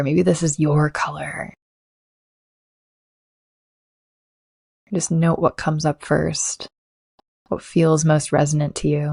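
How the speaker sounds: calm, unhurried meditation voice with long pauses; guided meditation. Acted. Coach leads listeners to ground and settle, guided meditation. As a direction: guide the listener gently, leaving space to breathe.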